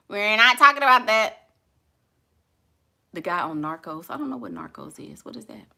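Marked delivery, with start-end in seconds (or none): 0.1-1.5 laughing. Real, not acted. Laughs, repeats the line.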